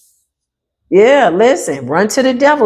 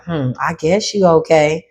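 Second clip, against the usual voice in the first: grudging approval. Retold or imitated. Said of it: "Now they like".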